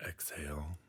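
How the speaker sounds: unhurried meditation guide, long pauses between phrases; guided meditation. Acted. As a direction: gently lead the listener through calming imagery.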